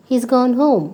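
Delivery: fold "has" into "He's"; contracted form. Shown as a demonstration. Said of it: "you can just say".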